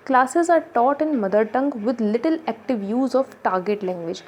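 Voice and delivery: very slow, word-by-word reading of the slide; teacher reading notes aloud, very slow; slow bullet reading. Acted. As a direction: dictate it so students can copy. Reads bullet point aloud slowly.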